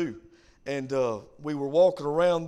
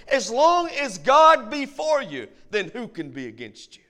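emphatic preaching; 5 semitones higher, 7 dB louder than usual. Acted. Sermon climax, then the quiet repeat.

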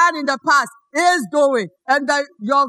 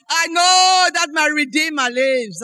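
proclaiming it with a raised voice. Retold or imitated. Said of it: "she raises her voice and she says".

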